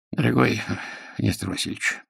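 choked, strained and quiet; strangled voice, holding back shock. A narrator's reading. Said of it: "каким-то сдавленным голосом проговорил".

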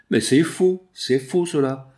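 impassioned outcry against an accusation; vibrant protest. A narrator's reading. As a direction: protest your innocence with ringing force. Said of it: "répliqua Jeanne d'une voix vibrante".

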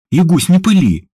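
ordinary delivery, nothing marked

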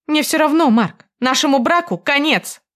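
high, loud, final; гневно, громко; furious declaration. A narrator's reading. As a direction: slam the door on the marriage. Wife ends marriage in fury.

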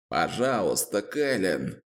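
silent plea. Acted. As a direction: beg her under your breath. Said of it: "беззвучно взмолился Зет". (Зет беззвучно умоляет Кэлен)

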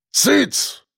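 резкий высокий окрик; осади наглеца одним словом; рявкнул. A narrator's reading. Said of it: "рявкнул на него дед Ефим". (дед рявкает на мажорчика, резко)

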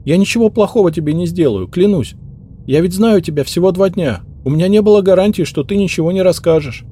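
high, anxious maid voice; frightened young maid. Acted. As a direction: swear it earnestly, scared.

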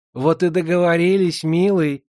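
put-on loud, gleeful old moneylender; gleeful old woman. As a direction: crow with joy over the deal. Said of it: "радостно отозвалась процентщица".

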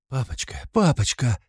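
put-on child's high pleading call; child crying out. A narrator's reading. The boy crying out to his father, child's call. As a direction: cry out for father like a small boy. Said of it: "кричит он отцу".

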